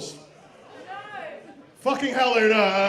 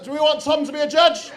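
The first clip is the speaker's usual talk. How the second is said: raised, louder crowd call; 4 semitones higher, 5 dB louder than usual. Real, not acted. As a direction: put it loudly to the room. Host puts vote to the crowd.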